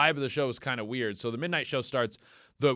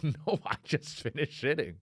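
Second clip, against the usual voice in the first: muted, incredulous objection; quiet comic dismay; 2 semitones lower, 6 dB quieter than usual. Retold or imitated. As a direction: protest under your voice. First protest to his stomach.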